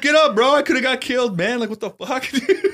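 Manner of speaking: loud, high-pitched outraged yell; retold angry shouting. Cellmate waking his sleeping lookout, retold angry shout. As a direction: yell it high, half laughing at the end.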